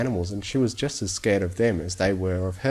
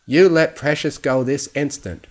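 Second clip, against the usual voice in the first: louder, higher stern order; stern command; 6 semitones higher, 7 dB louder than usual. Acted. Old pony sternly orders Fluttershy, louder and firm. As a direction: lay down the law to the filly. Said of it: "looking down at Fluttershy sternly".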